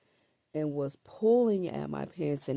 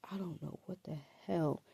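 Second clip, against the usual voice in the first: whispered bewilderment; 5 dB quieter than usual. Retold or imitated. Her bewildered thought during the struggle.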